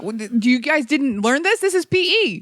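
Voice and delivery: can't believe they don't know; incredulous. Retold or imitated. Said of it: "I'm like".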